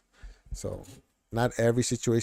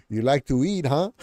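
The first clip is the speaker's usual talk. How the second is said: higher, louder sarcastic jab; 5 semitones higher, 7 dB louder than usual. Shown as a demonstration. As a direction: tease with a mock-innocent question, chuckling. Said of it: "in a sarcastic way".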